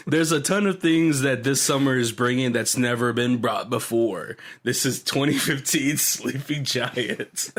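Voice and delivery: lightly voiced trailer narrator, slowing for the title; movie trailer voice. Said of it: "movie trailers".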